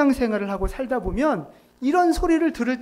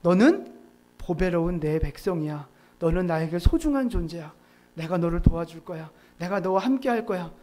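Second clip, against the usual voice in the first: god's tender words; 5 semitones lower than usual. Retold or imitated. Preacher voicing God's promise to his people, gently. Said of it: "긍정의 말을 주신단 말이죠".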